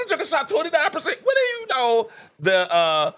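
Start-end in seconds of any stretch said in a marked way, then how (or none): 0.0-2.1 fast, laughing through the stat; can't keep a straight face. Retold or imitated. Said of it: "I said".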